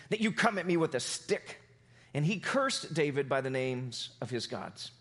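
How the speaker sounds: measured read-aloud of the Bible story; scripture reading. Acted. Pastor reading David and Goliath to the church: storytelling read. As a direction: tell it as a story, steady and clear.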